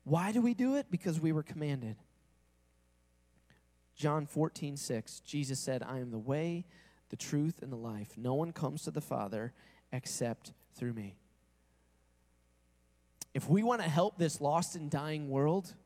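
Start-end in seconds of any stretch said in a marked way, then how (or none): 5.8-11.2 solemn quote. Retold or imitated. Quoting Jesus solemnly.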